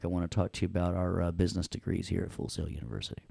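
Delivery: quick, soft mock sales pitch. Teacher joking he will sell a degree, quick soft mock ad. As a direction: rattle it off like a school ad. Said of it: "I'm kidding".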